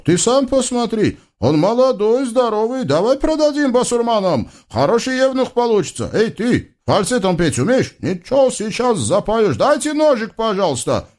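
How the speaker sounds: высокий насмешливый голос злодея; дразни пленника высоким голосом; тощий разбойник. Acted. Тощий разбойник предлагает продать. (высокий глумливый голос разбойника)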